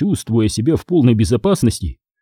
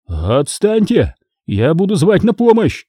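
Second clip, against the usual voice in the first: squealing in fear; 6 semitones higher than usual. Acted. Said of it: "заверещал Говоров".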